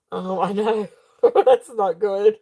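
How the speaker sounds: giggling through words; laughing. Real, not acted. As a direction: laugh while speaking. Laughing at own yawns.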